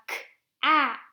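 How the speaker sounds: "k, ap" split, short A as in cap; sounding out. Shown as a demonstration. Teacher reads short A words, segmented. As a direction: pop "k", pause, then "ap". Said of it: "read these as C V C words".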